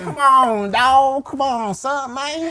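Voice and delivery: shrill, loud come on dog; high exasperated shout. Acted. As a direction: yell it in high-pitched disbelief. Mock exasperated outcry.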